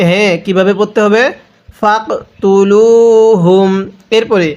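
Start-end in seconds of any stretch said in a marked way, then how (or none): 1.8-3.7 slow, drawn-out Quranic chant; measured tajweed recitation. Shown as a demonstration. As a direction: recite each word slowly and melodically.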